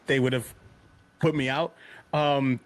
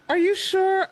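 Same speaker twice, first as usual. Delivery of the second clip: mock surprised white woman; 4 dB louder than usual. Woman on cruise questions him.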